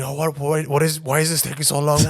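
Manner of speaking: imitating an irate dad, pitched high; angry shouting. Son imitating his dad at passport control, angry shouting. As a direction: raise the voice like a father losing his temper. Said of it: "he starts shouting".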